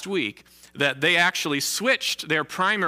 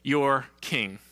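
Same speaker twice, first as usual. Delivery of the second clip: mocking tone; much slower than usual. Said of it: "speaking in a very mocking tone".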